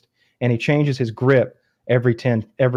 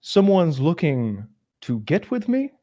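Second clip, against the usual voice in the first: mock tough guy; 6 semitones higher, slower than usual. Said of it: "I sit up and go".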